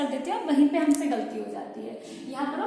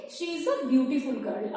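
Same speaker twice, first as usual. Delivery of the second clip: slow dictation; much slower than usual. Shown as a demonstration. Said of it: "teacher reading example".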